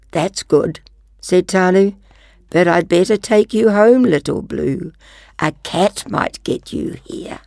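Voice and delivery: storybook narration; reading to children. Acted. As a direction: read it like a picture book. Reads second picture book.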